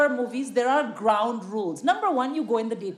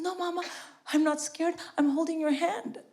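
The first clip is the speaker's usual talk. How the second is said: put-on daughter's child voice; 6 semitones higher than usual. Daughter reassuring mother during a scary movie, imitated high child voice. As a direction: imitate a small daughter in a higher pitch. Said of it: "She says".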